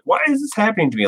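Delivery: high, fast whiny mock of his younger self; mild mock woe-is-me whimper; self-pity. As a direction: whine it like a sorry-for-himself kid. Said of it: "I was like".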